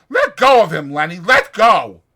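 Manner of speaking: loud, high commands; urgent shouting. Acted. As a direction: stop him now. George rushes to stop Lenny.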